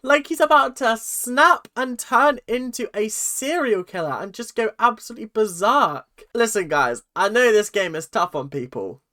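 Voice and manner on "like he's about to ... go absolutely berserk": slow, high dramatic horror; mock alarm. Vlogger reacting to a scary contestant, mock horror. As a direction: hype up the murderous look.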